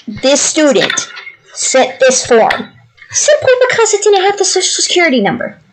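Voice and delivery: incredulous, pitch climbing high; mock-incredulous complaint; exasperated. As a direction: spell out how absurd it is, voice rising. Retelling an exasperated argument with clerk.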